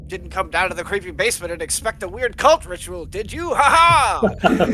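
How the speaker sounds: mustache twirling villain. Acted. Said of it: "Is he twirling his mustache?".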